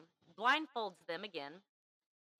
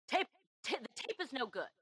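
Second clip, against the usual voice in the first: put-on half-hearted British accent, higher-pitched; 5 semitones higher than usual. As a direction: have a rough go at a British accent. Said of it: "My British accent would probably be worse".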